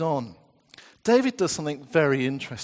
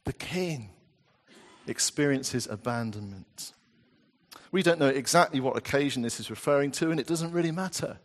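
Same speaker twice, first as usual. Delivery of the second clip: ordinary talk, nothing marked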